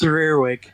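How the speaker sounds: Rearwig said as REER-wick; correct pronunciation. Shown as a demonstration. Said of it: "Is that how, how it's pronounced?".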